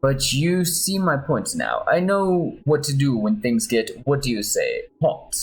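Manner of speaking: put-on mild Spanish-accented boast; gentle put-on Spanish accent. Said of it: "my Spanish accent".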